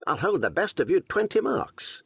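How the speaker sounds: put-on boastful young archer; bold young Robin. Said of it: "quoth bold Robin".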